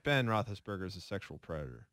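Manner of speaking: lady voice. Acted. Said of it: "reading the headline in a lady voice".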